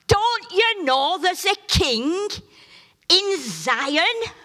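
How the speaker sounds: high, loud and slow rebuke; God's loud rebuke. Retold or imitated. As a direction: silence them with a booming question. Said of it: "he must have a very loud voice".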